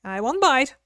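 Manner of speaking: a touch of Southern twang; Southern woman voice. Acted. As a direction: play a sassy country gal. Southern character.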